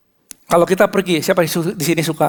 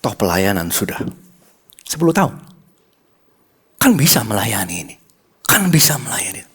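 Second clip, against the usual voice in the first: wife's tearful plea; 8 semitones lower than usual. Retold or imitated. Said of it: "Dia bilang / Istri saya menangis".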